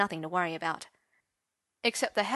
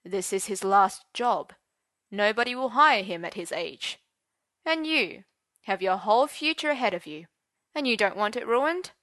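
silky menace. Acted. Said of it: "in a softly menacing voice".

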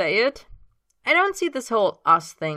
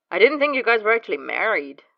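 reading in disbelief; 5 semitones higher, 8 dB louder than usual. Acted. James in disbelief.

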